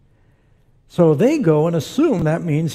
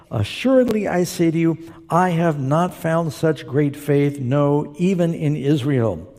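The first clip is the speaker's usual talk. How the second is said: measured, slightly raised preacher's reading voice; deliberate reading with stretched key words; scripture reading; 2 semitones higher than usual. Acted. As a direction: read the Bible passage out to a congregation, phrase by phrase. Reads scripture aloud to congregation.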